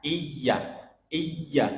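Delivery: 'Iya' as 'iy-ya', pressed, not dragged; pressed doubled y. Shown as a demonstration. Teacher showing the correct letter, pressed y.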